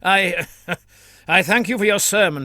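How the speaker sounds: bemused little laugh into polite thanks; chuckle, baffled by the rambling; a priest's puzzled chortle; confused chortle. Acted. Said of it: "gave a confused chortle".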